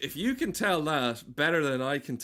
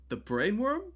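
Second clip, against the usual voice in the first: high-pitched incredulous echo of a heckle; Jimmy Carr; 10 semitones higher than usual. Acted. Comic imitating a comedian answering a heckler, high mock question. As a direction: throw it back as a squeaky, rising question. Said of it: "do you want a Jimmy Carr heck".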